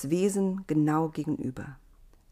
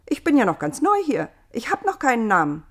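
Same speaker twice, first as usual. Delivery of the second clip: higher, brighter voice for Eva; newcomer Eva, cheerful; 5 semitones higher, 6 dB louder, faster than usual. A narrator's reading. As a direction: play the curious newborn girl.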